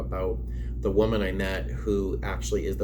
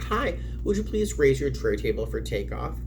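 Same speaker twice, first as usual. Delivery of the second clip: friendly cabin crew voice; 4 semitones higher than usual. Shown as a demonstration. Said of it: "that tone and that energy".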